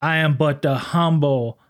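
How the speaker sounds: slow, smooth, overly polite officer. Retold or imitated. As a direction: play a humble, courtly lawman. S0 acts Officer Sisko, smooth voice.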